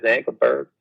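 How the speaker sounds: a gentle hint of a singer on the phone; impression of a singer. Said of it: "That was a good and surprising impression there".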